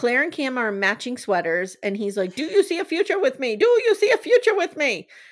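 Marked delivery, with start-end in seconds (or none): 2.4-5.0 loud high-pitched yelling. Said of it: "he's yelling over her".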